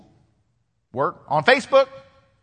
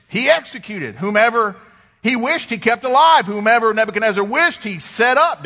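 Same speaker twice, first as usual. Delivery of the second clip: emphatic, higher-pitched preacher's reading; dramatic scripture reading; 3 semitones higher than usual. Acted. Preacher reading scripture to the congregation, emphatic. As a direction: read it out with rising and falling emphasis.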